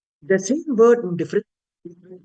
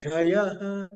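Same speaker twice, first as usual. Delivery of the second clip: "Chayaha" starting on a lowered Cha; downward intonation on Cha; 2 semitones lower, 4 dB quieter than usual. Shown as a demonstration. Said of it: "Cha down".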